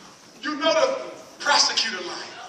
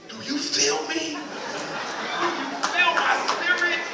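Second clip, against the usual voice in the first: slow, drawn-out heartfelt ask; slow soulful plea, feel me; emotional plea; 5 semitones higher, slower than usual. Retold or imitated. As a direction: lean in and ask if they feel your spirit. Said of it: "you really emotional".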